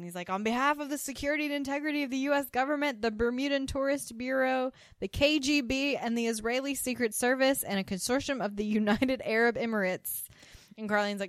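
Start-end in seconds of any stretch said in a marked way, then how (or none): 0.3-10.2 high-pitched mock official proclamation, rattled off; mock shouting. Podcaster retelling a bogus envoy clearing the room, mock shouting. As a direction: imitate someone shouting out a grand list, without full volume. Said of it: "starts, like, shouting".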